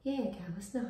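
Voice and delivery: hushed imitation of a nan; really soft voice. Shown as a demonstration. Correcting her impression of partner's nan, soft. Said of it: "She's got a really soft voice".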